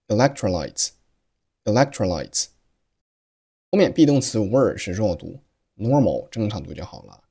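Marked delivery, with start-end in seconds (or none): 0.1-2.5 slow "electrolytes", c held silent before tr; "electrolytes" with a silent gap where the k would be; unreleased k in electrolytes. Shown as a demonstration. Teacher slowly showing the silent c in "electrolytes". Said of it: "读成了".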